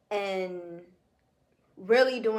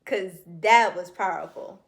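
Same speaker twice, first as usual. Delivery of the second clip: moved, chills; 7 dB louder than usual. Real, not acted. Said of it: "I got chills".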